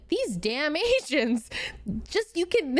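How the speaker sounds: quoting the doctor, breaking into laughter; can't hold back the giggles mid-quote; slow quote broken up by laughter; laughing through it. Retold or imitated. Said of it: "sorry, I can't say this without laughing".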